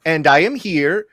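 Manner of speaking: put-on a light Venezuelan accent. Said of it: "my best Venezuelan accent".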